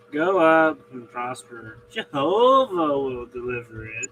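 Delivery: sarcastic. Retold or imitated. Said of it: "dripping with sarcasm".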